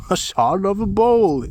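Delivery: high, loud, put-on voice; proud child voice. A narrator's reading. Askeladd answering his brothers, high proud voice. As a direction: announce it with pride.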